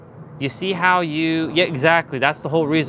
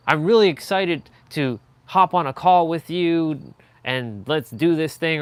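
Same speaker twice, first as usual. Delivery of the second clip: excited; 3 semitones higher, 4 dB louder than usual. Shown as a demonstration. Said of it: "you would add the enthusiasm there".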